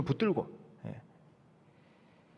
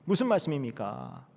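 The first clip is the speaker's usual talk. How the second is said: loud, higher bold boast; shouting a vow; 5 semitones higher, 4 dB louder than usual. Acted. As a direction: bluster it with big certainty. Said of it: "베드로가 또 소리칩니다".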